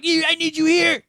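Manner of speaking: put-on high, slurred drunk-friend voice; drunk friend impression. Drunk friend calling for a pickup, mocked high and slurry. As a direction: squeak it like a wasted buddy on the phone.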